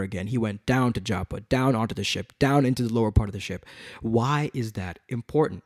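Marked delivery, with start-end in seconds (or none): 0.3-3.6 "down" leaned on at each repeat; measured repetition landing on "down"; stress on DOWN. Shown as a demonstration. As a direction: hit every "down" in the list. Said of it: "that I kept emphasizing".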